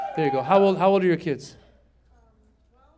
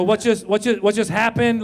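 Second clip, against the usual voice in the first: stalling; 3 semitones higher than usual. Retold or imitated. Father dodging his daughter's question, stammered stalling "what just happened". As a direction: repeat "what just" haltingly, buying time.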